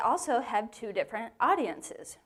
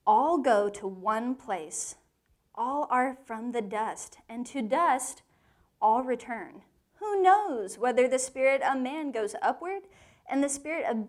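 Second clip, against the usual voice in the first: scripture reading; 2 semitones higher than usual. Shown as a demonstration. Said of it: "this is what he says".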